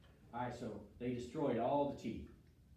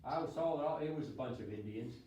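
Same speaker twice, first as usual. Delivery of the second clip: a hint of a sly witness, with a grin; lightly voiced witness, grinning as he lies; 3 semitones higher, 4 dB louder than usual. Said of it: "He goes".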